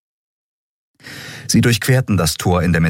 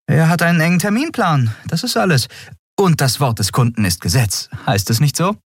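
put-on higher, fast, eager young captain; Endriel voice; 11 semitones higher than usual. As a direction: push the crew along, a bit rushed. Endriel redet sich heraus. (höhere, eilige Stimme der jungen Kapitänin)

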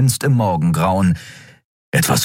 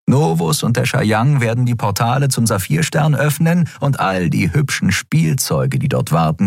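higher, savoring the coming triumph; gloating villain; 4 semitones higher than usual. Acted. Elin gloats over the new order, smug and high. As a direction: relish every word like a smug conqueror.

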